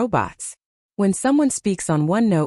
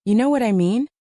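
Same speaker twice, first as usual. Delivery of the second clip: rising question tune; uptalk; 4 semitones higher than usual. Shown as a demonstration. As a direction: end it going up like a question. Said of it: "every statement sound like a question".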